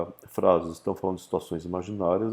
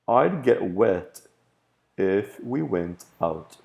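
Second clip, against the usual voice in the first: slow example read; much slower than usual. Shown as a demonstration. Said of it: "teacher reads example sentence".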